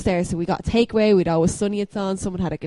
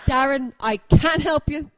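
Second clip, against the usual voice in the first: put-on drunk dismissal; 6 semitones higher, 3 dB louder, slower than usual. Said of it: "I remember Darren".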